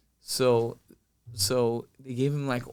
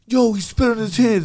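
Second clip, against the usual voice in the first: coach's mock outrage; 9 semitones higher, 6 dB louder than usual. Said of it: "one of the coaches goes".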